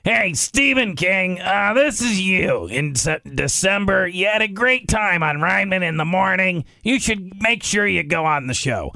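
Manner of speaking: a lightly done Stephen King on the phone; Stephen King impression. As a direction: leave him a voicemail in his own voice. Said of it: "I'm gonna call him".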